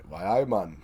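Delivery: lightly imitated Geordie; a touch of Geordie accent; put-on Geordie accent. Friend mimicking Preston's old accent, light Geordie. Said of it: "Preston used to have a different accent".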